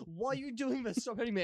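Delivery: high, soft mock pleading; hammed-up feeble protest; pleading middle-aged man. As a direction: play a helpless victim in a small high voice. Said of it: "middle-aged man just be like".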